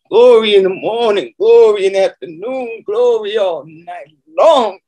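ringing praise, stretched out at the end; exultant preaching. Real, not acted. Preacher praising God before the congregation, exultant. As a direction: proclaim glory in a rising preacher's cadence.

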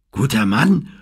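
mocking question; scoffing. A narrator's reading. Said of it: "fuhr Lumpy dazwischen".

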